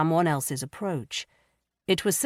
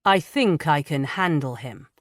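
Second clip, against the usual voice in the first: dry. Acted. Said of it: "Darkfell said dryly".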